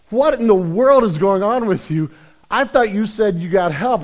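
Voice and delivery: loud, high, exasperated acted outburst; outraged disbelief. Bartender confronting the guy who threw beer, acted outrage.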